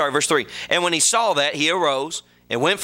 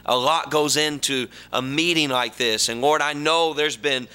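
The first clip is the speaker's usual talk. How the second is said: earnest pulpit prayer, steady and sincere; preacher's prayer. Acted. Preacher prays for the church before preaching, earnest. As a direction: talk to the Lord on behalf of the church.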